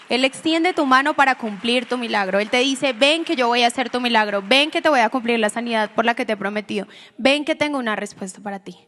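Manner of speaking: loud, fervent promise in Jesus' voice; Jesus calls the listener to come and receive a miracle, proclaimed loudly; forceful preaching. Acted. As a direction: preach it out to the whole church.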